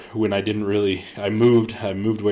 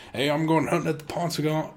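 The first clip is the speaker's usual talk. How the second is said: higher, offhand quoted husband announcing a hunt; imitating Chris; 7 semitones higher than usual. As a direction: toss it off like a casual husband. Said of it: "And Chris is like".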